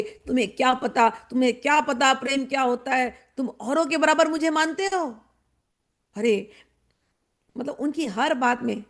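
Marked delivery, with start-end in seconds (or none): 0.0-5.2 mock scolding. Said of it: "वो दूसरे को डांट लगाएंगे".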